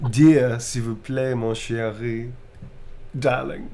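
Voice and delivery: loud, slow "Dear, s'il vous plaît"; hammed-up lover; romantic line. Reading a romantic line to chat, loud and slow. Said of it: "Romantic blushing type line".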